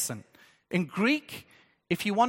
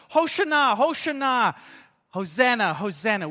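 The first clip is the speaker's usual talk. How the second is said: crowd shouting; 3 dB louder than usual. Retold or imitated. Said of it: "they're shouting".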